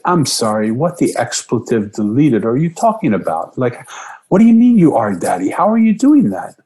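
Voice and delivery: rising, incredulous questions; father reacts to daughter's sudden sentence, astonished; stunned disbelief. Retold or imitated.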